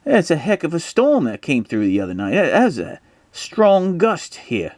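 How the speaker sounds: high, hammed-up Cockney accent; Stanley. Stanley remarking on the storm, high mock Cockney accent. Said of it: "Stanley says".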